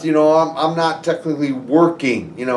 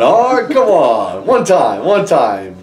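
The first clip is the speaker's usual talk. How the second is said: slow, drawn-out higher plea; pleading; 3 semitones higher, 5 dB louder, slower than usual. Retold or imitated. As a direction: stretch it out, begging a friend. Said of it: "yeah, I'm like".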